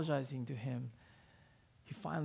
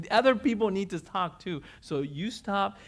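firm straightforward order; 6 semitones higher, 10 dB louder than usual. Retold or imitated. Ayako cutting off the rambling old man, firm loud order. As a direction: lay down the law to the rambling man. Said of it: "Ayako was pretty straightforward with his words".

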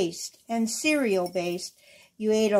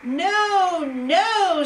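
much higher, louder frantic no; panicked imp shrieking his denial; screaming; 8 semitones higher, 6 dB louder than usual. Acted. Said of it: "screamed the little man".

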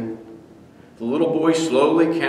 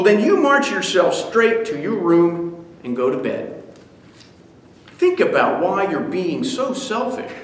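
louder, higher scolding; furious father; 4 semitones higher, 3 dB louder than usual. Acted. Furious father sending son to bed, scolding. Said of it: "The father was furious".

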